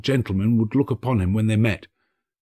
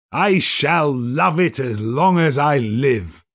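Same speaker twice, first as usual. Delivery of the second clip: cried out; 4 semitones higher, 3 dB louder, slower than usual. Acted. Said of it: "cried Scrooge".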